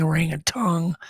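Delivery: "orangutan" ending in -tung; orangutan, last syllable like "tongue"; variant pronunciation. Shown as a demonstration. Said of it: "Pronounce orangutan. Is it orangutan".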